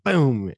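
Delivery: sudden loud boom of a slamming door; imitated door slam. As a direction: punch out a booming slam. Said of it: "lets that door slam".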